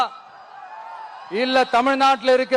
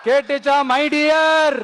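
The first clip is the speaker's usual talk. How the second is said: taunting shout; 2 semitones higher, much slower than usual. Real, not acted. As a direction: shout it as a playful jab. Taunting the chief minister. (கிண்டலான உரத்த கூப்பாடு)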